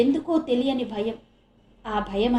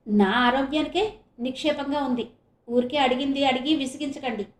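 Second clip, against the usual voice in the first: irritated brush-off; 2 semitones higher than usual. Acted. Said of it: "అని విసుక్కుందే".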